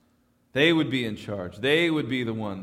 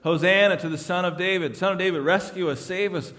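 mock crowd shout; 4 semitones higher than usual. Preacher echoing the crowd's cry to the congregation, lightly shouted. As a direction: call it out like the crowd at the gate. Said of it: "are they shouting things like".

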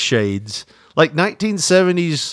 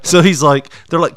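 ordinary talk

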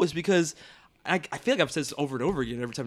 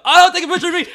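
mock vain; 11 dB louder, faster than usual. Mocking a posing self.

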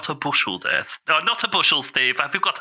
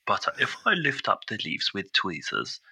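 softer, whispered careful aside; hushed whisper; 2 semitones lower, 5 dB quieter than usual. Real, not acted. Gamer peeks under the leaves, soft whisper. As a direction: whisper as if concentrating.

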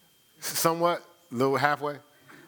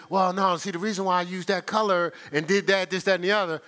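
lightly voiced Miss V explaining herself; a hint of a defensive explainer; mock over-explaining friend; imitating Miss V; 3 semitones higher than usual. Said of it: "Miss V gonna tell you".

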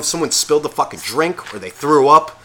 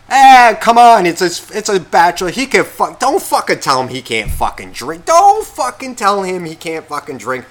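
loud, higher pushy buddy voice; imitating Buffer; 6 semitones higher, 6 dB louder than usual. Buffer egging on the groom, loud rowdy mimic. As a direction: bark it like a rowdy drinking buddy. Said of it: "Then Buffers fucking comes over".

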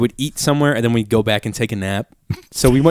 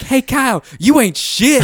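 mock drunk girl; 13 semitones higher, 3 dB louder, slower than usual. Girl drunkenly insulting tall friend.

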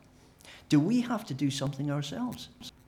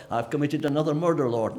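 louder, casual confession; mock confessor; 3 semitones higher, 6 dB louder than usual. A sinner to God, mock casual. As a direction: toss off the confession lightly. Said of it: "confession to God".

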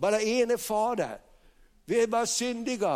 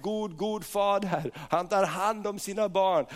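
ordinary talk, nothing marked

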